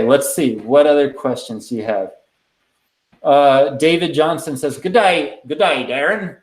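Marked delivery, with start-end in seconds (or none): 4.8-6.4 a weak, hammed-up Australian accent reading a viewer's greeting; bad Australian accent. Reading out a comment from Sydney, in a self-mocking bad Australian accent. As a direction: attempt an Australian accent and mostly miss it. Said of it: "that was the worst accent ever".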